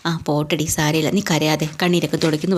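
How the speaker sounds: husband soothing his crying wife, tenderly; lovingly consoling. Retold or imitated. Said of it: "സ്നേഹത്തോടു കൂടിയാണ് പറഞ്ഞിട്ടാണ്".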